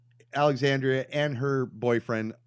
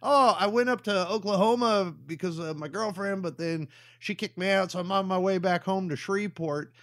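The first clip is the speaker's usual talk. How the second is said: higher-pitched goofy character voice; twangless hitchhiker impression; 6 semitones higher than usual. Hitchhiker explaining his breakup, higher mock character voice. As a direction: imitate him with no Southern twang. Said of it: "does not have a fucking Southern accent".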